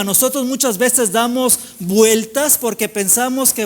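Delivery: insistent preacher hammering each repeated phrase; impassioned preaching. Real, not acted. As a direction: preach with driving, sustained energy. Preaches at full force.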